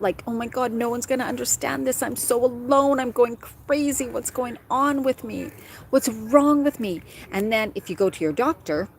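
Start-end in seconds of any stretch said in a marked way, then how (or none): 0.3-7.0 higher-pitched, acted anguish; pleading inner voice, slowing toward the end; retold distress. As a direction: relive feeling alone and desperate, mildly dramatized. Reliving her distressed thoughts.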